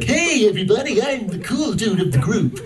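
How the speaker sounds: high, goofy surfer dude. Retold or imitated. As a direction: play a laid-back goofy surfer. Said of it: "they gave him this really goofy sort of surfer dude voice".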